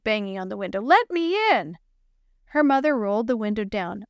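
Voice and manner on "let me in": raised higher shout. Acted. Girl banging on car window, shouting. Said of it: "she shouted".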